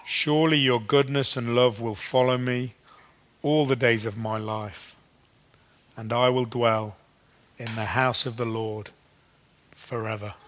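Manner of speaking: measured, prayerful reading, pausing after each phrase; slow psalm reading. Real, not acted. Preacher closing the psalm for listeners with eyes closed, slow and reflective. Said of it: "I'll read it slowly".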